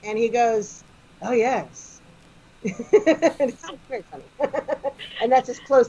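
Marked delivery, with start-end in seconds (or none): 1.2-2.0 unruffled, matter-of-fact reply; deadpan British understatement; understated Doctor. Retold or imitated. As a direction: play it down completely, as if nothing is amiss. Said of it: "understated doctorness".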